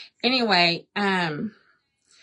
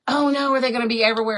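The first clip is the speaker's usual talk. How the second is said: quick, louder mock alarm; imitating William's alarm; 3 semitones higher, 5 dB louder, much faster than usual. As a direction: quote a worried question in a rush. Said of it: "And he's like".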